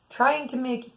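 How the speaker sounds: talking through the hiccups; hiccuping mid-sentence. Real, not acted. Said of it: "I got the hiccups".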